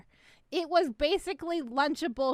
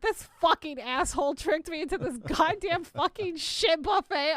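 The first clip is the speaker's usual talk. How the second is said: retold fury; 5 semitones higher, 5 dB louder than usual. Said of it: "I was so tilted".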